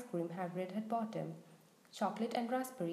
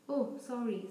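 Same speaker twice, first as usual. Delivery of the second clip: insincere. Acted. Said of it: "not sounding sorry at all".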